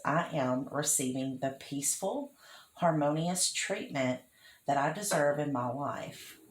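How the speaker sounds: unhurried, with pauses between phrases. Shown as a demonstration. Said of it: "I'll say it slower for those of you taking notes".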